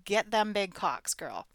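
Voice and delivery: loud cheering yell; cheering friend on. Retold or imitated. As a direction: cheer your girlfriend on, full throat. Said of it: "And I was all".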